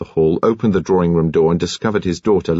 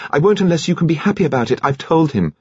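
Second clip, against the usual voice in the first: put-on high, quick young woman's insistence; earnest daughter; 9 semitones higher, faster than usual. Rose to her father about marrying, earnest insistence.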